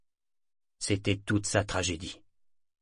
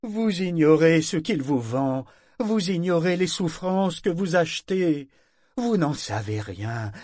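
high, loud accusation, slowed; raging ship; 7 semitones higher, 4 dB louder than usual. Acted. Parangon accuses the buyers, raging. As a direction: hurl the truth at them.

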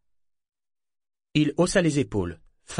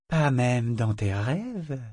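soft gentle question; slower than usual. Acted. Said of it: "posée sur un ton doux".

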